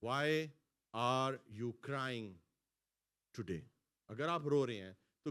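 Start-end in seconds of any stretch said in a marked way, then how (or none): 0.0-3.6 are you crying drawn out very slowly; gentle slow question to the church; slow pleading question. Shown as a demonstration. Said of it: "آپ کیوں رو رہے ہیں؟".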